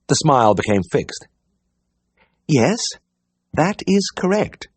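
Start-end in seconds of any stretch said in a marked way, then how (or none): 2.5-4.7 slow, high, every word separate; spelled out carefully. A narrator's reading. Diana correcting the vet, spelling the words out carefully. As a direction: spell it out as if to a fool. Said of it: "spelling the words out carefully".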